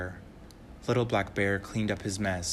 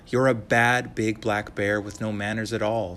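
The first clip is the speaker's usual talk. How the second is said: put-on scolding little girl; 5 dB louder than usual.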